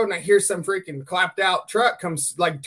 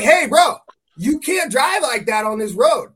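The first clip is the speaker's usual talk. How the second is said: raised, emphatic telling-off; retold scolding; 4 semitones higher, 5 dB louder, slower than usual. Dog walker warning a reckless driver, acted stern scolding. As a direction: start high and loud, then slow down firmly.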